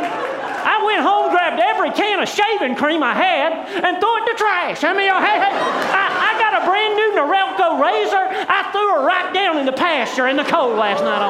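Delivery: high-pitched, animated pulpit storytelling; worked-up preacher's boast; fired-up preaching. Real, not acted. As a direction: tell it to the congregation at excited full pitch. Preacher tells it at full force.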